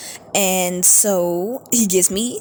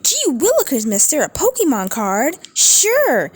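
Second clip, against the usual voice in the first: put-on very high, gushing little-kid voice; wide-eyed innocent kid, squeaky high; naive kid voice; 8 semitones higher than usual. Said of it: "I'm like".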